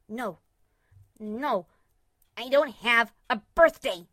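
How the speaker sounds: panicked, squeaky denial; breathless frightened squeak; squeaking breathlessly. A narrator's reading. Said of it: "she squeaked breathlessly".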